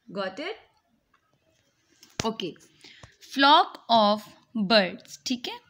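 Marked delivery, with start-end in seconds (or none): 3.2-5.2 Flock of birds spelled out slowly, word by word; teacher modelling Flock of birds at half speed; slow, deliberate model phrase. Shown as a demonstration.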